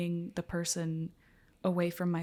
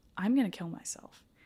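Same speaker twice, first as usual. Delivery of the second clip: yelling outburst, words yelled out; 2 semitones higher than usual. Retelling running upstairs in crisis and yelling: retelling own yelling. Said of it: "just yelling".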